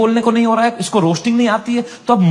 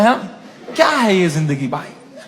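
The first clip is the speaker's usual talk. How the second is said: ordinary delivery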